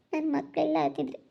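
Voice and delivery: acted crying while lamenting a betrayal; tearful. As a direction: pour out the hurt through mild sobs. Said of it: "ಯಾಕೆ ಅಳ್ತೀಯ?".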